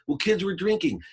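high-pitched protesting explanation; imitated teen in a row; defensive. Acted quarrel, daughter explains.

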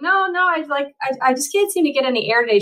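high, fast flustered denial; brushing it off, fast and high; protesting. Retold or imitated. Athlete tells her doctor she just cannot get air, high and fast. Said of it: "And I'm like".

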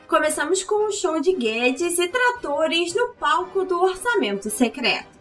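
lightly voiced circus ringmaster. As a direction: announce it like a big-top ringmaster.

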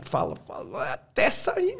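imitating strained effort to speak, leaping high; straining baby. Teacher showing a baby's effort, straining imitation. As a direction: push the words out like a baby learning. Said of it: "Ele vai se esforçando".

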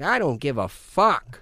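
drawn-out Italian-American grandpa; slow it into an Italian-American growse; grandpa's Italian-American accent. Retold or imitated. Grandpa dismissing what annoys him, Italian-American accent. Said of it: "like my grandpa used to be like".

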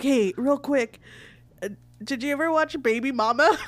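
giggly. Retold or imitated. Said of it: "I'm so giggly".

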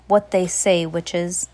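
loud stern demand. Acted. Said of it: "he demanded".

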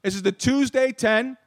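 slow drawn-out radio jingle voice; jingle announcer. Shown as a demonstration. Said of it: "I made this little jingle up for Charlie".

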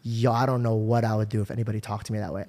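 low, softened voice; subdued and low, mock-intimidated; cowed reaction. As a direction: back down quietly, as if stunned by the threat. Imagines his cowed reaction to threat.

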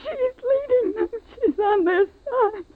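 weeping, desperate prayer; sobbing in terror. Acted. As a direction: cry it out, broken with fear.

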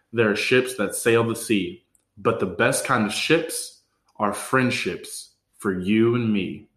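slow, measured toast recital; careful retry. Shown as a demonstration. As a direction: recite the tongue twister deliberately, phrase by phrase. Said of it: "let's try this one more time".

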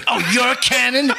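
high, pushy mock challenge; imitated aggressive sergeant. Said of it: "you're gonna yell at me".

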